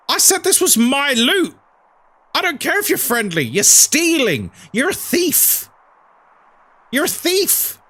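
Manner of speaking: high-pitched retold outrage; mock indignant. Streamer replaying telling off a looter for stealing, high-pitched indignation. Acted confrontation with looter in story.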